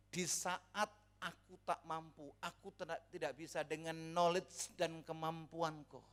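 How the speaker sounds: soft, slow recital of a sung lyric; softly spoken, unhurried plea; spoken prayer. Retold or imitated. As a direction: say it quietly and slowly, as a humble prayer.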